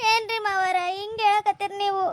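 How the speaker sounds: crying through the words; a wounded daughter-in-law, close to sobbing; tearful plea. Acted. Daughter-in-law begs her father-in-law, crying.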